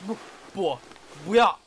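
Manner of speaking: high, loud playful "不要"; mock protest. Fending off his lover in a high, loud mock protest. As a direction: squeal a fake refusal.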